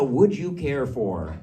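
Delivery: slow, loud, showcased formal phrase; elevated formal English. Retold or imitated. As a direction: present it as grand, refined speech. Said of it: "that's up here".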